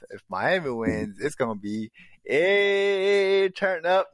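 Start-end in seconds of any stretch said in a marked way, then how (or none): 2.2-4.1 high, loud celebratory call; acted party shout; party hype. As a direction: whoop it up for the crowd. Voicing Miami's wild celebration.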